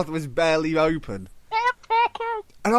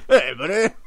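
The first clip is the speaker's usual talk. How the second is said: put-on Canadian accent; 2 semitones higher, 4 dB louder than usual. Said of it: "like you're one of the Canadian people".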